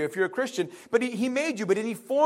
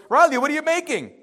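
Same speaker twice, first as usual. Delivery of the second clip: curious brother; 5 semitones higher, 5 dB louder, faster than usual. Retold or imitated. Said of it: "He goes".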